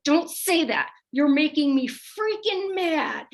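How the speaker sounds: hammed-up little boy fuming at mom; imitating angry child. Mom imitating son Hudson's angry outburst, mock anger. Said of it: "when he gets mad".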